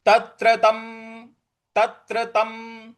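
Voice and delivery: तत्र with त्र pressed; stress on त्र. Shown as a demonstration. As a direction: lean a little on त्र in तत्र. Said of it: "जो त्र है उस पर थोड़ा सा बल लगाएंगे". (त्र पर बल देकर)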